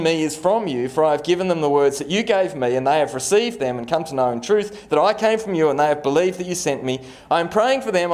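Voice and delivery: rushed, careless scripture reading; read badly. Shown as a demonstration. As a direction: gabble through the verses without care. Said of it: "I read it badly".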